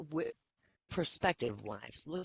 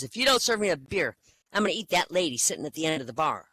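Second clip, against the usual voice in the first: angry bear threat; 4 dB louder, faster than usual. Acted.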